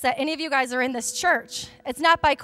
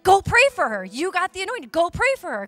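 a loud push to go pray; urgent urging; 3 semitones higher, 5 dB louder than usual. Retold or imitated. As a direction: urge her on, a bit louder. Leader urging her to pray.

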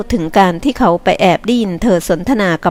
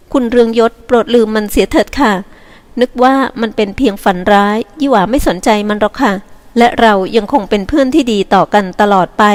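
sweet and gentle; 3 semitones higher than usual. Acted. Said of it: "บอกเสียงอ่อนหวาน".

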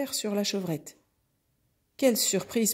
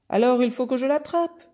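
raised, higher voice of a mother cow; indignant cow; 5 semitones higher, 6 dB louder than usual. Acted. Cow explaining the chase to the bull, loud indignant voice. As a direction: declare it loudly, set on the chase. Angry cow chasing the kid.

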